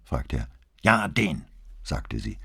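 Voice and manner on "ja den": a touch of spite in it; spat out in anger. Acted. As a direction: bite the syllables off with mild fury. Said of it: "spie die Silben mit solcher Wut aus".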